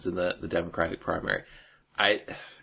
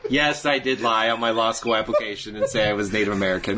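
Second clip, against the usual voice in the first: mock confession through laughter; laughing. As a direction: giggle through a fake admission. Mock Warren rebuttal.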